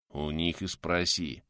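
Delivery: slow, sullen grumble; grumbling. Acted. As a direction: grumble it back slowly. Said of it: "проворчал в ответ Милован".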